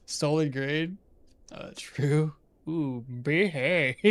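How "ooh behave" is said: slow, drawn-out Austin Powers through a laugh; a giggling stab at Austin Powers; Austin Powers impression. Gamer trying Austin Powers while laughing, slow drawl. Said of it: "That was a bad impression".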